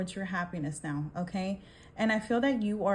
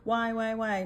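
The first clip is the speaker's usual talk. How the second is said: half-hearted whine of someone crying; mock crying; 3 semitones higher than usual. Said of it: "this person in the back right there crying".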